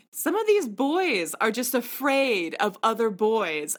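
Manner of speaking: slow, thick Italian accent impression. Retelling the contestant Dominic's line, in an Italian accent. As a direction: lay on a heavy Italian accent. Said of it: "really thick accent".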